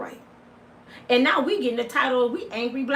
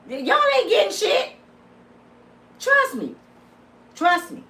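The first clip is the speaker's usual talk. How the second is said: sassy; 8 semitones higher than usual. Real, not acted. High mock warning.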